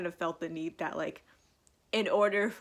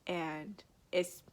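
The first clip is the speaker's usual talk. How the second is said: whispered; 6 dB quieter than usual. Real, not acted. Emotional about boyfriend.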